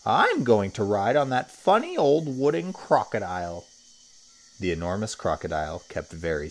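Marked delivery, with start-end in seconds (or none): 0.0-3.7 put-on higher, louder child's voice; raised-pitch girlish announcement; little girl. A narrator's reading. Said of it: "one little girl".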